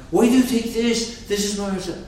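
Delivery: high put-on dog voice; scolding dog. Dog complaining to the chicken over scraps, high put-on voice. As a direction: have the dog whine it, high.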